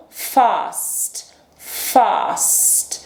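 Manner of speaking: fast with a long back a, British style. Shown as a demonstration. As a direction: say fast with a broad ah. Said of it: "Outra opção". (fast com A longo, britânico)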